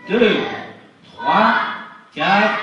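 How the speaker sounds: loud, high showman reveal; excited countdown. Acted. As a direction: build to a triumphant reveal. Counting down the trick loudly.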